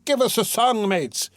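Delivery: rally the cart to sing; rowdy call. A narrator's reading. Drunk in the cart calling his mates, rowdy shout. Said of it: "shouted someone in the cart".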